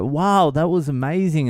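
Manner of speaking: high, mock-amazed dad; cheering admiration. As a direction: imitate an awestruck onlooker cheering. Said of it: "they started, like, cheering".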